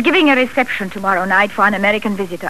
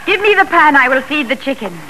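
normal talking voice

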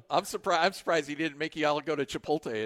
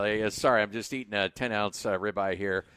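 lower, offhand bragging into the phone; casual phone call voice; 6 semitones lower than usual. Pretend. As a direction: talk like a big shot on a call. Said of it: "you know, taking a phone call".

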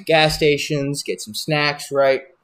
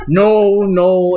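higher and louder, cutting him off; exasperated refusal; 6 semitones higher, 6 dB louder than usual. Retold or imitated. Turning down Tom's hash brown, higher and louder refusal. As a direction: push the offer away hard.

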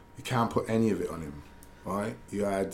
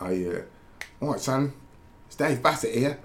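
higher-pitched Cockney impression; Dave Bassett; 5 semitones higher than usual. Football manager phoning a player in bed, imitated Cockney accent. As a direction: put on a chirpy Cockney caller voice. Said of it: "That's a pretty good Cockney accent".

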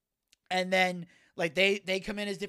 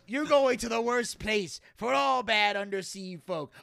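Flying Dutchman; 2 semitones higher, slower than usual. Retold or imitated. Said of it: "the Flying Dutchman comes in".

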